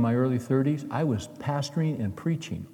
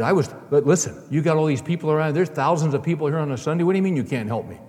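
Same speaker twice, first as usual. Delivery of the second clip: desperate pleading; 4 semitones higher, 5 dB louder, faster than usual. Retold or imitated. Abortionist pleading with MacArthur.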